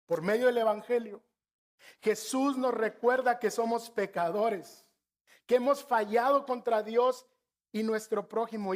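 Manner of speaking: preacher urging the brothers to see their sin; fervent preaching. Acted. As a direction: preach it to the congregation with force. Preaching the gospel.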